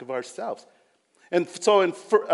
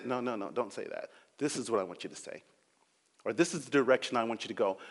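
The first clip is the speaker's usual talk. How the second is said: voice of the Lord; 5 semitones lower, 6 dB quieter, faster than usual. Retold or imitated. The Lord answering the preacher.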